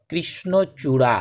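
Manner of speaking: কৃষ্ণচূড়া said slowly; careful pronunciation. Shown as a demonstration. Teacher to pupils, slow example word. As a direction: sound out কৃষ্ণচূড়া. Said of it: "উদাহরণ হিসেবে বলতে পারি".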